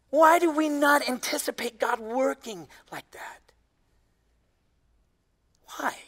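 slow hushed whisper; slow, searching whispered question. Real, not acted. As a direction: let the question hang in a whisper. Preacher drops to whisper.

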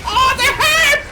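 loud high screaming, words stretched out; 절박한 고함. Real, not acted. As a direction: scream for help mid-fight, dragging each cry. 위기에 구해 달라 외침. (길게 늘여 크게 지르는 절박한 고함)

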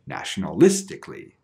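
"nationalistically" with main stress on LIS; stress stays put. Shown as a demonstration. Teacher adding a suffix, "nationalistically" still stressed on LIS. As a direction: hit LIS in "nationalistically", the ending unstressed. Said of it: "it will stay the same".

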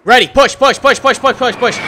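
loud, high battle yell; shouting over gunfire. Real, not acted. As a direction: yell the push order to the squad. Leader calls the breach.

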